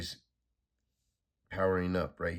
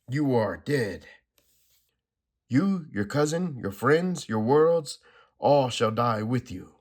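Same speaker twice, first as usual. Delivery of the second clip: villain's doom; 3 semitones higher, 5 dB louder than usual. Acted. Anti-Monitor final threat.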